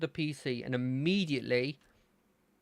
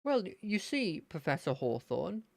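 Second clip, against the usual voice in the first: Terry; 2 semitones higher than usual. Acted. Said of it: "to get me into his voice".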